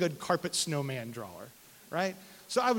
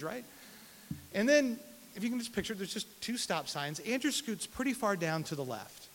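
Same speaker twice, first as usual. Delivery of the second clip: ordinary talk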